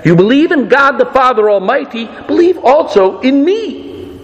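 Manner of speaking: earnest plea, pitch climbing toward the end; Jesus pleading. Retold or imitated. Jesus pleads with the twelve in the upper room, pleading. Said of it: "Jesus pleads with them".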